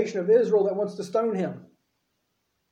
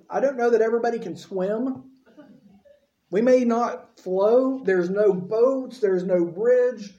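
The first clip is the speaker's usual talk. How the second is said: slow, deliberate listing of problems; doubtful objections; 3 semitones higher, slower than usual. Retold or imitated. Moses slowly objecting to God's command. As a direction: spell out each problem slowly. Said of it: "And he's like".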